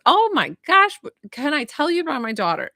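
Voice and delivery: high, loud New York mom bursting in; excited New York accent, pitch swooping up. Retold or imitated. Medium channels a client's mom bragging, New York accent. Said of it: "like, New York accent".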